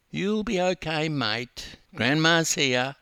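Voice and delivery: soothing grandmother voice; comforting grandma. Acted. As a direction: gently reassure the boy.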